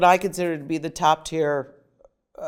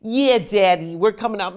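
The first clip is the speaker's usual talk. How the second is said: louder imitation of a New York accent; mother's New York accent; 3 semitones higher, 4 dB louder than usual. Daughter imitating mom talking to her father, in a New York accent. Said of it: "I didn't hear her talk like that".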